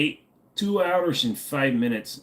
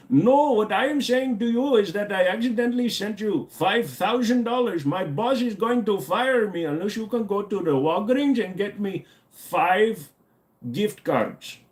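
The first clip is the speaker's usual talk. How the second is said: higher, pushy scam-caller voice; mock scammer; 5 semitones higher than usual. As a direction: pressure them into buying gift cards. Mock gift-card scammer.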